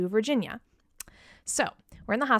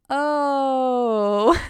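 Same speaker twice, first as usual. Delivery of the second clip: loud surprised oh in a put-on voice; consultant's shocked oh, acted out; mock shocked oh; 4 semitones higher, 7 dB louder than usual. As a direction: blurt it like a startled consultant. Imitating the consultant again.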